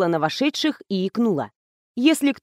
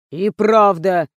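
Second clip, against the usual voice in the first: ordinary delivery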